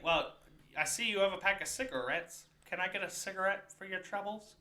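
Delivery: soft, lightly creepy villain impression; Joker. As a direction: put on a quiet cartoon-villain wheedle. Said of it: "He talks like the fucking Joker".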